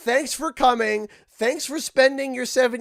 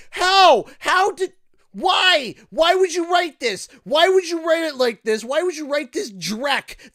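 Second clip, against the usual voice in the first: exasperated; 5 semitones higher than usual. Real, not acted. Ranting gamer asking writers why, exasperated. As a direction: demand an answer from the writers.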